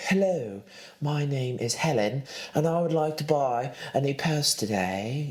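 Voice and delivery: a lightly put-on voice of a fancy shopper; mock posh shopper. Mocking a rich woman putting on a show at the store, lightly voiced. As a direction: play the prim rich lady introducing herself. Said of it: "are putting on a show and they're like".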